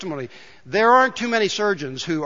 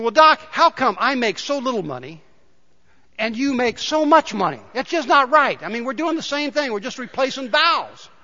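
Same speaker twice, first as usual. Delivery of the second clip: a higher, aggrieved mechanic asking why; mock-indignant mechanic; 5 semitones higher than usual. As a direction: plead the unfairness, half joking. Mechanic complaining in joke.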